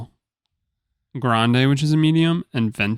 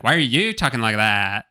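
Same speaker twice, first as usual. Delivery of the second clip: mildly irritated retort, stretched YOU; annoyed customer. Retold or imitated. Customer retorts to the barista, retold mild annoyance. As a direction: throw the question back, lightly mocking. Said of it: "gets visibly mad and goes".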